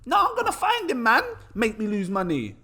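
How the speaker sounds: high put-on London accent, laughing at the end; hammed-up London tough guy, cracking up. Scammed investor vows to find the developer, mock London accent dissolving into laughs. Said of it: "Trying to be proper like London".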